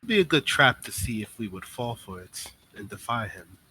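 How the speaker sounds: lightly voiced wary schemer, measured with pauses; a hint of a composed character weighing a trap; woman in the tub. Woman warns Tanari of a possible test, lightly voiced deliberation. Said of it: "uh, she says".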